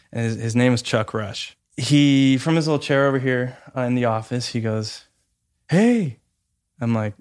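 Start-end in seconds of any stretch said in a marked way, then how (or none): 5.7-6.2 cheery hey. Retold or imitated. Man calling out a greeting.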